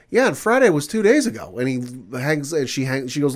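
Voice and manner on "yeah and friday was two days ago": high and louder, fed up; exasperated retort. Retold or imitated. Date shutting the man down on the phone, loud. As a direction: shut him down.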